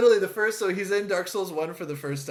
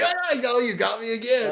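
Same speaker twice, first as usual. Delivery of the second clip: mock gloating; 5 semitones higher than usual. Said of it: "and he falls like".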